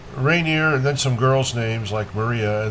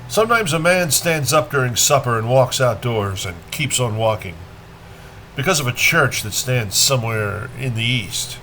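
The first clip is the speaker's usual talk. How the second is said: measured poem reading with pauses between lines; poetry reading. A narrator's reading. Reader shares Rilke's Sunset with listeners, measured poetry reading. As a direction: let each phrase stand, then fall away.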